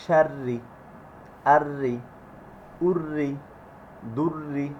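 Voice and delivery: light doubled R in "শাররি, আররি, উররি, দুররি"; thin r. Shown as a demonstration. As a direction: drill each "ররি" with a thin, unrounded R. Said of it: "পাতলা হয়ে যাবে". ("ররি"-তে র পাতলা উচ্চারণ)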